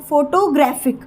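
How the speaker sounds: "फोटोग्राफिक" drawn out, stress on "ग्राफिक"; third-syllable stress. Shown as a demonstration. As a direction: lean slowly on "ग्रा" in "फोटोग्राफिक". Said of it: "मैंने ग्राफिक पे stress दिया". ("फोटोग्राफिक" में "ग्राफिक" पर ज़ोर, धीरे)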